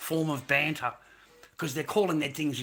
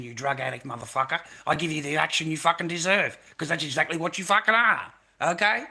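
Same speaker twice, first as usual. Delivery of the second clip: shouting down a heckler, rising to Okay; retold angry rant; 2 semitones higher, 5 dB louder than usual. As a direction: hammer every insult, louder at the end. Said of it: "that's what I said to you on live".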